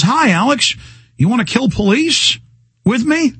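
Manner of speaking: lightly voiced fed asking him to join a crime; mock agent. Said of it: "walks over and says".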